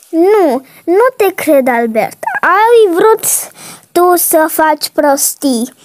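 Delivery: low, quick scolding mother voice; stern mother. Acted. Mother punishing her daughter for breaking the tablet, low stern scolding. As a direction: scold her like a cross mom.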